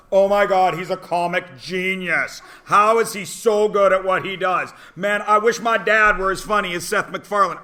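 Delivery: put-on loud, gushing teen fan. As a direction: rave like a starstruck kid. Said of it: "But if Seth MacFarlane tells it".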